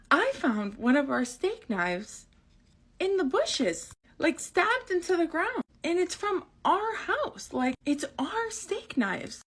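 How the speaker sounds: laughing, high and slow; laughing repeat. Retold or imitated. Retelling mom's find while laughing. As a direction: giggle through the mom quote.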